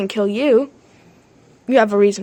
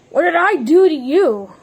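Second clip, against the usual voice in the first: mock-angry demand. Player fake-mad at the one who tried to kill him, mock anger. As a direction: demand it now, voice up. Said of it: "I'm just getting really mad".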